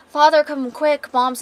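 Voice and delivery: high, loud urgent call; panicked boy. Acted. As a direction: shout for help as a frightened child. Acted boy running to get dad.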